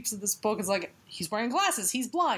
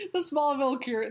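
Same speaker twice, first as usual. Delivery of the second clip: laughing; 3 semitones higher than usual. Real, not acted. Laughing while speaking.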